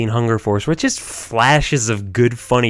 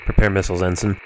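Captain Murphy voice. Acted. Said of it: "the Captain Murphy voice".

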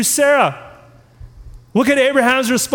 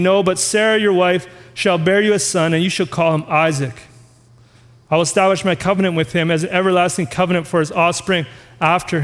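lightly voiced God, lower and steady; a hint of God, pitched lower, answering calmly; 5 semitones lower than usual. Preacher reads God's reply to Abraham, lightly voiced lower God. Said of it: "God disagrees".

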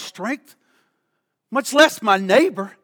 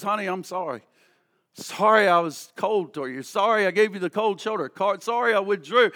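soft apology; 4 semitones lower, 5 dB quieter than usual. Acted. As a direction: lower and softer, a spouse saying sorry. Spouse apologizing after a quarrel.

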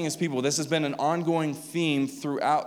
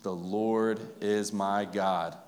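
slow unison reading; 4 semitones lower, much slower than usual. Shown as a demonstration. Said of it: "church, read it with me".

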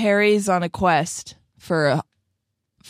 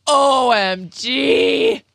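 excited; 8 semitones higher, 6 dB louder than usual. Real, not acted. Thrilled at crossover idea.

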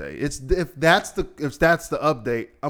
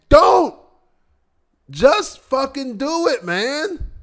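a sudden much higher, louder shout; angry shout; 14 semitones higher, 8 dB louder, much slower than usual. Real, not acted. Podcaster shouting at people who post about themselves. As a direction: bark it out, fed up. Ranting back at posters.

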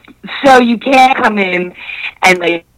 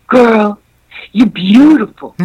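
smarmy flirt voice. Retold or imitated. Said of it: "and he just goes".

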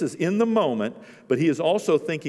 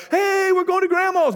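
very high, louder, gleeful call; excited announcement; 5 dB louder than usual. Retold or imitated. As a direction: sell the treat to the kids. Parent announcing a trip to kids.

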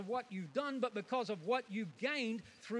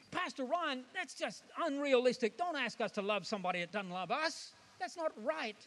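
mock angry complaint; 5 semitones higher than usual. An annoyed churchgoer complaining to Pastor Ryan, mock protest. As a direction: whine at the pastor like a fed-up listener. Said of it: "you get angry and go".

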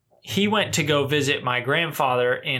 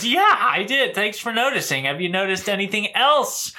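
higher, dad's bright intonation; impersonating his dad; 7 semitones higher than usual. Retold or imitated. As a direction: copy dad's pitch and lilt. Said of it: "whenever you do your dad".

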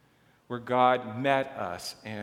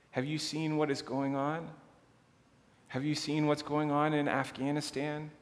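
pleading prayer; 3 semitones higher than usual. Pretend. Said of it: "One way we might speak of this is to say".

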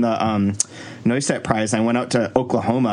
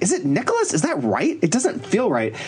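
higher-pitched, puzzled self-questioning; self-doubting; 6 semitones higher than usual. Retold or imitated. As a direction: question yourself, unsure of a name. Retelling own doubt over a name.

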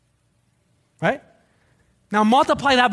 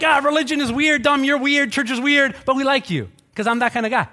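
mock dismissive friend; 6 semitones higher than usual. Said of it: "they're like".

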